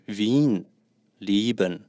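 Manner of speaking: Wien and Lieben with a long held ie vowel, slowly. Shown as a demonstration. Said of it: "E A都是长音".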